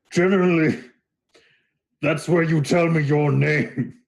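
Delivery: high, slow Minotaur voice; prompting Minotaur. Acted. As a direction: prompt pointedly, stretching the words.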